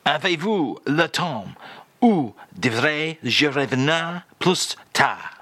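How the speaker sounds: slow, careful French phrase demo; slow French phrase read. Shown as a demonstration. The speaker reads out the French phrase of the day, slowly. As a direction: present it as a lesson phrase. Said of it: "Again, please, Charles".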